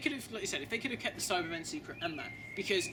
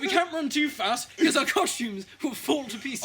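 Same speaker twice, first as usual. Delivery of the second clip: high, loud, slow laughing panic; panicking actors in flimsy costumes, high and loud; mock panicked Cyberman; 9 semitones higher, 8 dB louder, slower than usual. Fleeing Cybermen worried about their costumes, laughing high panic. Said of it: "they're like".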